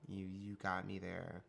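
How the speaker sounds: comedic stutter. Shown as a demonstration. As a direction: stammer on you, you. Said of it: "I sometimes stutter for comedic effect".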